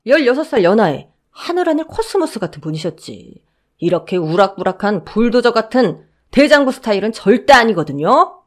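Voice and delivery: guard mocking the mother-in-law's claim; lightly voiced teasing guard. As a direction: needle her smugly.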